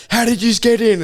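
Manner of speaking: high mock Australian security guard; exaggerated Australian accent, pitched well up; thick Australian accent. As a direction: challenge them in a put-on Aussie voice. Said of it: "In a thick Australian accent".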